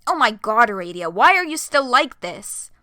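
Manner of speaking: loud, exasperated shout at a friend; exasperated yell. Acted. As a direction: yell it out, fed up. Karkat yells at Aradia.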